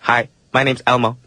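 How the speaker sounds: light doll voice; a hint of a toy doll; talking doll. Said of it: "Now you sound like a doll".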